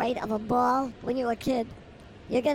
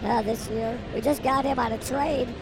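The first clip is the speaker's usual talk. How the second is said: play-by-play. Acted. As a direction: call it like a radio announcer. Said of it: "I'm gonna go play by play".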